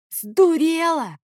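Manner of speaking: high, slow outraged yell. Acted. Favius, struck with the rolling pin, yells at her in outrage. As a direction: shout at her in shock. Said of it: "заорал Фавий".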